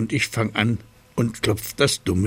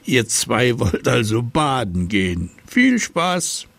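old miller mocking. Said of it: "sagt er zu uns".

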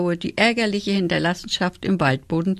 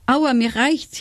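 a higher, whiny ouch from a beaten wolf; wailing; 6 semitones higher, slower than usual. A narrator's reading. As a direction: whimper it out, pleading for it to stop. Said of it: "jammerte der Wolf".

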